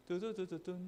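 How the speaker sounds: soft hummed musical sting; imitated background music. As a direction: sing out a little drum-like intro quietly. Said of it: "배경음악이 탁 나와요". (작게 입으로 흉내 낸 배경음악)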